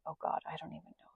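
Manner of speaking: fast mumbled whisper; whispered aside. Real, not acted. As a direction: mutter it to yourself. Fumbling aside about the date.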